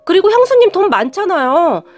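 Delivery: 조금 높고 세게 따지듯 묻는 남편; 형수에게 언성을 살짝 높이는 느낌으로. Retold or imitated. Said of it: "화까지 내면서 말을 했어요". (형수에게 따지는 남편, 살짝 높고 센 화난 목소리)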